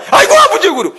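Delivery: aigo, wail it to the sky; hammed-up chick's wail; wailing eaglet. Next eaglet wails to father.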